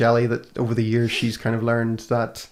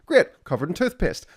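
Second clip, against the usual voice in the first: higher, louder mock delight, every word dripping sarcasm; over-the-top sarcasm; 7 semitones higher, 4 dB louder than usual. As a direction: fake cheer over a miserable morning. Sarcastic rant about toothpaste.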